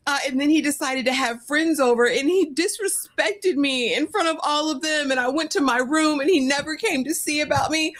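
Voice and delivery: high, whiny mock complaint; mock tearful whine. Host imitating Elise's tearful complaint, high mock whine. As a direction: keep whimpering through the story. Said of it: "she's like".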